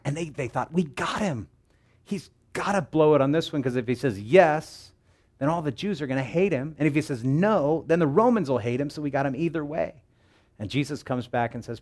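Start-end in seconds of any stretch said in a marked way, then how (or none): 0.7-10.0 gloating schemers. Acted. Schemers gloat over their trap.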